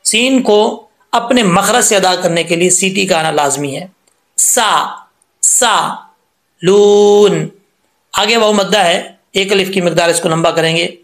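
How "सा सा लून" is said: सा with a hissing whistled s, लून held long; whistled seen. Shown as a demonstration. Teacher showing students the whistling seen, clear hiss. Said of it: "सीन में सीटी आती है".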